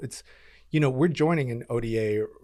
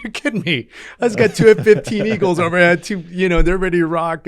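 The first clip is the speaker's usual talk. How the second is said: frustrated disbelief; 7 semitones higher, 10 dB louder than usual. Retold or imitated. Frustrated at break contact.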